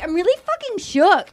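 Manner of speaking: high-pitched mock shock; Serena, shaken. Contestant reacting to the couple's breakup, high-pitched mock shock. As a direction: imitate a rattled contestant. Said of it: "And Serena's like".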